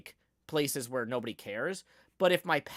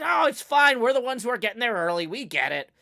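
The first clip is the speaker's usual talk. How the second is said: higher, louder breezy reassurance; parents reassuring; 8 semitones higher, 9 dB louder than usual. Retold or imitated. Parents brushing off the clutter, breezy. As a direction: brush it off cheerfully. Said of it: "And they're like".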